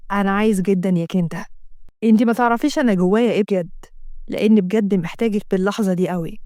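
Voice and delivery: lightly voiced yearning lover. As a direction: insist you need her now. Assem pleading his need.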